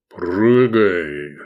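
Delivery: a giant ordering the prisoner to jump; giant's command. A narrator's reading. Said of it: "скомандовал Киклоп".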